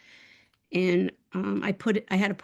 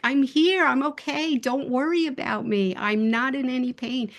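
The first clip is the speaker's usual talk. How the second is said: lightly voiced little cat, raised then settling; a hint of a small pet's high voice; high-pitched little cat; 4 semitones higher than usual. Cat reassuring grieving owner, lightly high-pitched. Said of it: "It was like a high-pitched voice".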